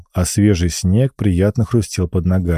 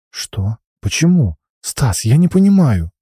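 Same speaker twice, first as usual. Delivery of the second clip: put-on bewildered girl; 5 semitones higher than usual. Alina hurt and confused.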